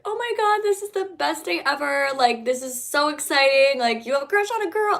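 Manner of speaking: high, gushing, thrilled reaction; excited celebration. Retold or imitated. Sibling reacting to her coming out, imitated with high excitement. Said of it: "made it such a celebration".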